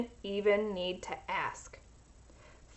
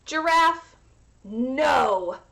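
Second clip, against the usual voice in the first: higher, louder firm refusal; a hint of a stern grandmother; firm grandma; 4 semitones higher, 5 dB louder, much slower than usual. Grandma turning Sophia down, firm.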